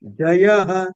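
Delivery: "Jayaha" with the Ja pitched low; downward Anudatta intonation. Shown as a demonstration. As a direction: drop the first syllable of "Jayaha". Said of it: "down, Anudatta".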